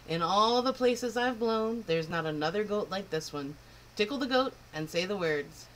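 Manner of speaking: put-on proud, huffy old wind spirit; a touch of an offended old wind; old Wendy the north wind. North wind scolding the girl, a lightly voiced huffy old wind.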